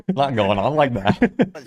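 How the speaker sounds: loud amused Aussie echo; mimicked Aussie accent. Reactor parroting the interviewee's phrase, slow Aussie accent.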